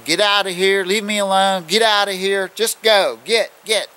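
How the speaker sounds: loud high yells to scare it off; yelling. Retold or imitated. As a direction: yell to drive the animal away. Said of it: "I was just yelling".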